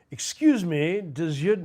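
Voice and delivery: high, loud Pink Panther quote; Peter Sellers. Acted. Podcast host quoting a favourite Pink Panther scene, high-pitched comic impression. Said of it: "I love Peter Sellers".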